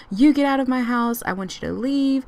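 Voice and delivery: mildly heated retelling of an order; arguing. Retold or imitated. Fiancee ordering him out of the house, arguing. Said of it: "his dad and his fiance arguing".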